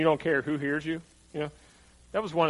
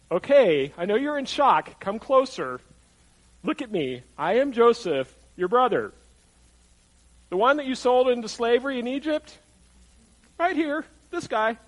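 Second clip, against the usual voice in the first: higher, emphatic phrases with pauses between; spelling it out; 7 semitones higher, 5 dB louder than usual. Acted. Joseph to brothers who aren't getting it, emphatically spelling it out. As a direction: get through to stunned listeners, piece by piece. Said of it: "they're not quite getting it".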